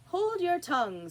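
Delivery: loud high angry order; furious. A narrator's reading. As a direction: snap the order in rage. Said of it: "turning purple".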